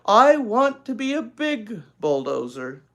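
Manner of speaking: loud, slow, grudging reading; cross. Acted. Older sister crossly reading to her sister. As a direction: read it reluctantly, annoyed. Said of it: "said Beezus crossly".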